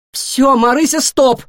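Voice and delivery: loud, decisive cut-off; firm stop. A narrator's reading. Nora cutting off the chattering guinea pig, firmly. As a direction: slam the brakes on her chatter. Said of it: "решительно оборвала её Нора".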